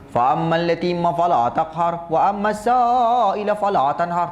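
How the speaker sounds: put-on slow recitation in a Kedah accent; light mock Kedah-accented Quran reading; Kedah-style recitation. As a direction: recite slowly the way Kedah folk do. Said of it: "Tu dia orang Kedah baca Quran".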